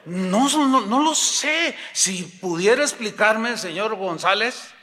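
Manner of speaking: high, flustered mock protest; pleading employee. Fired employee begging señor González to explain, flustered. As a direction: plead innocence to the boss.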